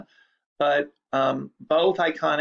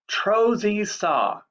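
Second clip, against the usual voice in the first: "trozy saw" read slowly and higher, each syllable spaced for repeating; slow nonsense dictation; 5 semitones higher, much slower than usual. Shown as a demonstration. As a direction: spell out "trozy saw" slowly so they can echo it. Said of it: "Three syllables".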